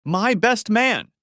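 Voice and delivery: high, loud, very slow outburst; raging shout. Acted. Husband raging to his wife about his best man, enraged. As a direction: stretch every word in fury.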